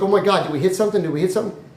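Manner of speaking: mildly panicked, hurried asking; acted frantic worry. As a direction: rush it out as a rattled friend. Dave frantically questions Art.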